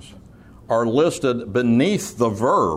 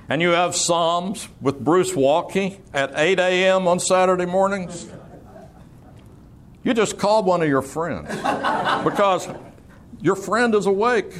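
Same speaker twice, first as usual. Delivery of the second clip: amused storytelling; 4 semitones higher than usual. Real, not acted. Amused memory of seminary nights.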